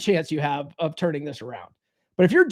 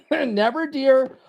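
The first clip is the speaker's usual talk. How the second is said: repeat-after-me slogan; 3 semitones higher than usual. Shown as a demonstration. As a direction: lead the group through the slogan. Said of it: "Say it with me now".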